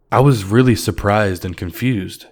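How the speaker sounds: usual speaking voice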